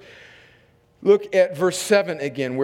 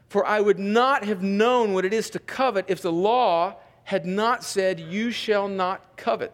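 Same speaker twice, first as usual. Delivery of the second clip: measured reading, phrase by phrase with pauses; scripture reading. Real, not acted. Pastor reads Paul on law and sin, measured scripture reading. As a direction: read it out deliberately to a congregation.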